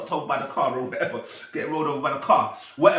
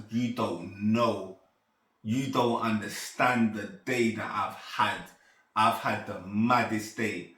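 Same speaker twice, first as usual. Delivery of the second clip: slow, low and heavy; retold stunned speech; 5 semitones lower than usual. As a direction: draw it out as if overwhelmed. Retells stunned words to John Nine.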